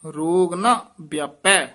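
"ਰੋਗ ਨਾ ਵਿਆਪੈ" closed with a rest; measured "ਰੋਗ ਨਾ ਵਿਆਪੈ" to a phrase end; full pause after. Shown as a demonstration. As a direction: finish on "ਵਿਆਪੈ", then stop. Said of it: "ਇੱਥੇ ਵਿਸਰਾਮ ਹੈ".

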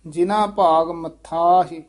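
ਮੱਥਾ ਹੀ with a firm double tth; slightly tightened ਮੱਥਾ. Shown as a demonstration. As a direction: press the consonant in ਮੱਥਾ, long final aa. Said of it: "ਥੋੜਾ ਜਿਹਾ ਕਸ ਕੇ".

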